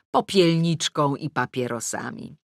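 ordinary delivery

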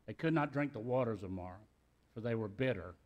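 measured reading of the verse; scripture reading. Shown as a demonstration. Pastor reading Exodus aloud, measured scripture reading. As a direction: read it plainly to the church.

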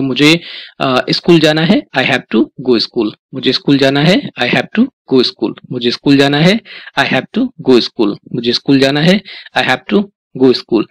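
"I have to go school" drawn out slowly after a rising Hindi line; slow repeat-after-me drill. Shown as a demonstration. Teacher drilling students in spoken English, slow and deliberate. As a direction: lead the class word by word, slowly. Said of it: "तो आपको बोलना है".

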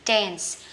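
"dense" ending in a clear s hiss; teacher's model of dense with the final s sounded. Shown as a demonstration. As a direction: finish dense on an audible "s". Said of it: "Nhớ xì nha".

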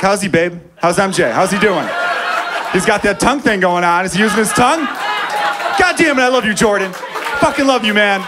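hammed-up adoring fan; starstruck gushing. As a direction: gush at your hero, laughing. Gushing at Jordan with wife.

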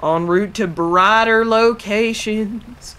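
lightly put-on southern pirate accent. Gamer sailing along, slipping into a mock southern pirate voice. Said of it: "I'm a southern pirate".

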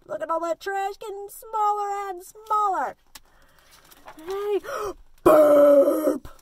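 loud, slow, swaggering truck voice; boastful garbage truck. Acted. Teacher reading I Stink to kids, swaggering truck voice. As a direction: brag like a hungry garbage truck.

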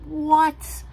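high, stunned questioning; high mock astonishment; shocked disbelief. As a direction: gasp it in disbelief. Richard in disbelief.

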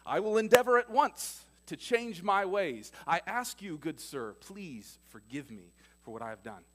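lightly voiced overly polite parrot; a hint of a prim, formal bird begging pardon. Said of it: "The bird looks at him and says".

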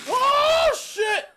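high shouted alarm; startled shout. Real, not acted. Gamer shouts as the climber slips, high alarm. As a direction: yelp it out in fright. Character nearly falls.

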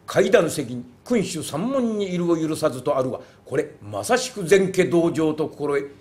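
slow, stately declaiming; formal monk's declaration. Acted. Wandering monk at the gate formally requesting a debate, slow and stately. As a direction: announce yourself like a solemn itinerant monk.

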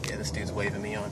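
hushed, fast whisper; imagined other drivers. Retold or imitated.

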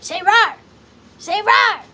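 put-on loud, high kid demanding a roar; Shrek kid impression. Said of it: "where he's like".

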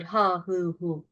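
"Ha, hı, hu" as plain Turkish syllables; wrong reading of "Ha, hı, hu", light h with no throat work; Turkish-style h. Shown as a demonstration. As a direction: Turkish vowels on "Ha, hı, hu". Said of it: "Böyle değil".

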